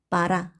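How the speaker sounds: 빠라 with first o said as a; Russian 빠라, unstressed o opened to a. Shown as a demonstration. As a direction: say 빠라, stress on the final a. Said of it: "강세 없는 오는 아로 읽는다".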